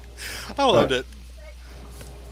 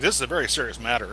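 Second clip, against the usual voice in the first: mock serious; 3 dB quieter, faster than usual. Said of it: "And they get all serious".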